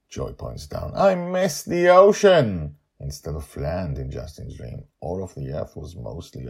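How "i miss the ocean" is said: high, slow, loud cry of joy; a girl calling out her delight; excited child Joy. Acted. Joy points down at the ocean, crying out high and loud.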